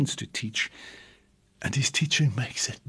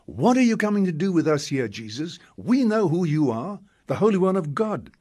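a lightly voiced demon, higher and quicker; the spirit taunting Jesus, a touch higher; unclean spirit; 5 semitones higher than usual. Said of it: "the unclean spirit recognizes Jesus".

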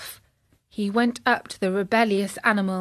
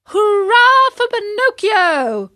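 slow, high, loud cheer; a crowd of boys cheering, much louder; 11 semitones higher, 7 dB louder, slower than usual. A narrator's reading. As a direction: hail Pinocchio's fine leap. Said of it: "all the boys shouted".

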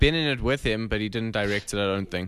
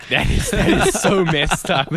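laughing disbelief; 3 semitones higher, 4 dB louder, slower than usual. Retold or imitated. Retelling viewers' reaction, laughing.

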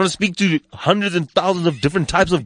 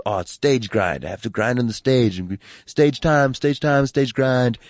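mocking quote; slower than usual. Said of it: "tell you about this thing called".

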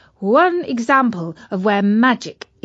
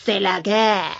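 French phrase. Acted. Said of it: "said the virus".

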